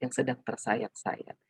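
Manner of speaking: soft, subdued sad delivery; softly demonstrating a sad tone; demonstrated sadness. Shown as a demonstration. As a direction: ease off softly, as if sorrowful. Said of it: "harus pelan seperti orang yang sedang".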